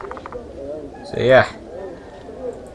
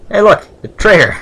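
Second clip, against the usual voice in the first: higher, louder excited shout; excited call; 10 semitones higher, 10 dB louder than usual. Real, not acted. Player spotting the trader, excited shout. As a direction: call out like you just spotted him.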